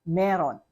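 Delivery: "meron" as meh-ron; understandable pronunciation. Shown as a demonstration. Teacher telling learners how to be understood, contracted pronunciation. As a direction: say "meron" in two joined syllables. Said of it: "you have to pronounce it as".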